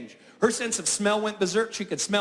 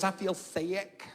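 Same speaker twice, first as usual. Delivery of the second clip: drawn-out sick moan; 2 semitones lower, 9 dB quieter, much slower than usual. Acted. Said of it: "She goes".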